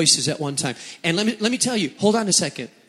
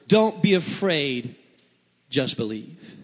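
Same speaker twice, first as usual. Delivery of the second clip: gentle reassurance; 4 semitones lower, slower than usual. Acted. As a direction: soothe a frightened father. Jesus comforts the synagogue ruler.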